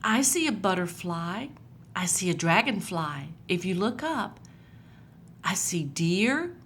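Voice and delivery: put-on gentle, lively storybook reading for kids; reading to children. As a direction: read it like a picture book to little ones. Reads Bible story to children.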